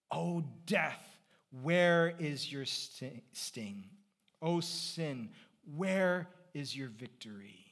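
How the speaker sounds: slow, drawn-out scripture quote; scripture declamation. Acted. Preacher recalling the verse for the congregation, slow declamation. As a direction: declaim it in slow, separated phrases.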